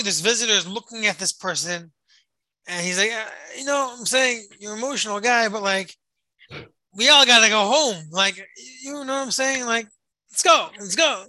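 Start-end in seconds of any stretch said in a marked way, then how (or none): 3.1-11.3 impatient. Retold or imitated. Visitor to crying old man, impatient and pushy. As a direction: hurry him along, half annoyed.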